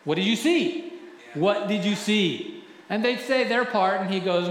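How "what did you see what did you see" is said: voice of God. Retold or imitated. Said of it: "what would God say".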